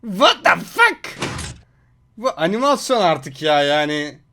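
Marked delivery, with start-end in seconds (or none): 0.0-1.2 drawn-out slow disbelieving question; slow stunned disbelief. Real, not acted. Watching an impossible slime clip, slow stunned disbelief. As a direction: stretch it out, dumbfounded.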